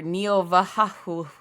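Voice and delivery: "Neo Vahahu" slowly run together; slurred together. Shown as a demonstration. Streamer trying out a name's pronunciation, slurred together. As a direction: slur "Neo Vahahu" into one loose word. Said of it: "like, slurred together".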